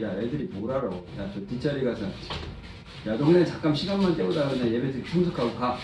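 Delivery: low, soft offhand brush-off; dismissive adult. Acted. Adults telling children to sit at the back, dismissive. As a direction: wave them away under your voice, lightly acted.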